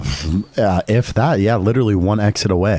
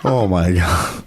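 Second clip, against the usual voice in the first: eating dry crackers; 6 semitones lower, slower than usual. Real, not acted. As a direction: mouth full of cracker. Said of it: "Can you crunch into the microphone?".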